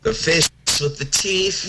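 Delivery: silly voice. Pretend. Goofy fish joke.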